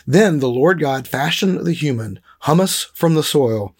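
measured read-aloud with deliberate emphasis; scripture reading. Acted. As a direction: read the passage aloud deliberately, weighting key words.

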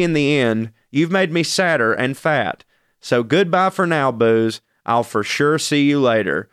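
sing-song rhyming poem reading; poem recitation. Acted. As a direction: recite it like comic verse. Reads own poem aloud.

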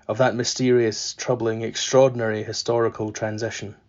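measured literary reading; story narration. A narrator's reading. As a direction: read the novel passage aloud, steady. Reads novel passage aloud.

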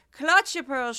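mock Southern belle clutching her pearls in horror. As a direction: gasp it out like a scandalized Southern lady. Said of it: "today she's Southern".

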